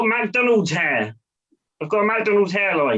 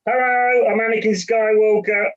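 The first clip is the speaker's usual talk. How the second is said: Anakin Skywalker impression. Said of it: "another one".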